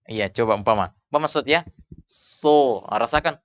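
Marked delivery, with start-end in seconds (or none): 2.1-2.8 SO with a thick, rounded sound held inside the mouth; huruf shad tebal. Shown as a demonstration. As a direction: say SO heavy, back of the tongue raised. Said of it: "suara meluncur ... suara tidak keluar". (SO dibaca tebal, suara membumbung)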